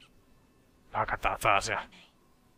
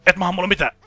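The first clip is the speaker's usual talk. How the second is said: taunting; 9 semitones higher, 9 dB louder, faster than usual. Real, not acted. Gamer taunts a game enemy.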